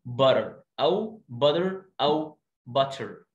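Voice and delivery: very slow butter three ways; three variants. Shown as a demonstration. Teacher giving three ways to say butter. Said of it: "صح".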